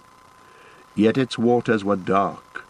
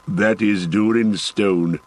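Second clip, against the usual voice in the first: cried out; slower than usual. Acted. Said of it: "cried Gimli".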